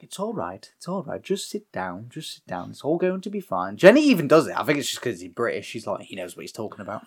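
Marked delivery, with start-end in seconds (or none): 0.0-3.8 tag. Retold or imitated. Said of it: "and the Brit's like".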